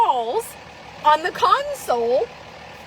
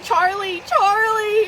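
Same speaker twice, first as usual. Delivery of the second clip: rising scold; 3 semitones higher, slower than usual. Retold or imitated. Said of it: "you're like".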